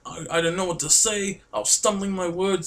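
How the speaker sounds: high-pitched flustered re-enactment; freaking out. Retold or imitated. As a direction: relive it high, stumbling with excitement. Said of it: "In reality, I was freaking out".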